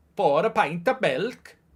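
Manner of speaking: bad put-on Welsh accent that misses. During match commentary, trying out accents for viewers: bad Welsh accent. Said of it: "that's not Welsh".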